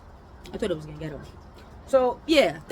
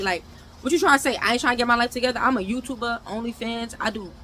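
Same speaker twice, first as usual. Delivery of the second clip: raised, fast, offended retort; indignant outburst; 4 semitones higher than usual. Real, not acted. Answering his ex best friend's jab, an indignant fast rant. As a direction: fire back, stung by the accusation.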